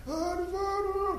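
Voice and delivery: very high, strained imitation of a voice gone hoarse; mock hoarse cry. Prophets hoarse from crying all day, mock strained call. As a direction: cry out Baal as if the voice has given out, playfully. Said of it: "声も枯れて".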